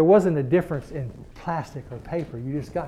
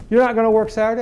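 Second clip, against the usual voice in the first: incredulous boss; 7 semitones higher, 7 dB louder, faster than usual. Retold or imitated. Boss presses in disbelief.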